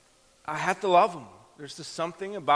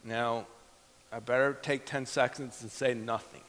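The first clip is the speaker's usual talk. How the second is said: inner thought; 5 semitones lower, 6 dB quieter than usual. Retold or imitated. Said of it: "And I'm thinking".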